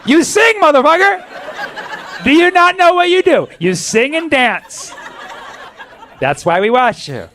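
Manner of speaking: high-pitched, drawn-out incredulous shouting; exasperated yell. Pretend. Comedian scolding an absent pop star, exasperated yell. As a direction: yell it high, in comic disbelief. Mock-exasperated yelling at the celebrity.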